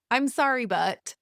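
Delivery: mock a grudging sorry; fake apology. Mimicking a defensive partner's apology, grudging. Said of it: "fake apologies".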